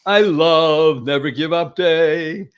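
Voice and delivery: slow, stretched-out proclamation; exuberant declaration. Real, not acted. Host praises guest's day, exuberant declaration. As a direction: draw it out like a big announcement.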